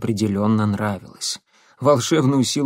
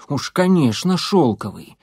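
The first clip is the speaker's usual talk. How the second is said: sarcastic; 2 semitones higher than usual. Acted. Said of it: "мысленно ответил".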